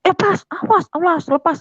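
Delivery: very high-pitched struggling cry; imitated demand for release. Father in a headlock demands release, high angry cry. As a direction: cry out to be let go, acted.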